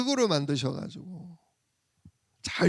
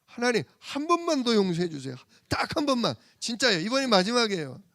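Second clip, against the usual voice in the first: higher, pleading promise to God; pleading child self; 5 semitones higher than usual. Retold or imitated. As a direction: beg like a child caught again. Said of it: "제가 어렸을 때 그랬잖아요".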